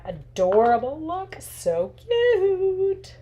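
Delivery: high, sugary voice on "So cute"; cutesy gush. Pretend. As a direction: coo over the card like it is adorable. Gushing over the finished craft.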